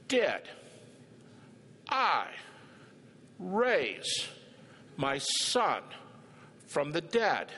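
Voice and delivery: Did I raise my son from the dead, each word set apart by long pauses; word by word, slowly. Pretend. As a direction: spell it out one word at a time, like to a slow student. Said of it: "so I'm gonna say this real slowly".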